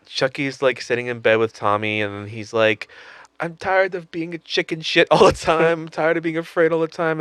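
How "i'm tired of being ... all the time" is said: lightly voiced Fievel's dad; a hint of old New York immigrant. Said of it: "making Chucky sound like the mouse from the American Tail".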